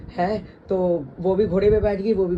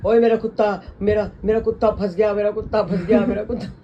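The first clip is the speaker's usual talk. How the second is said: mock panicked cry; 3 semitones higher, 4 dB louder than usual. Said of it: "वो घोड़े को कुत्ता कह रही है".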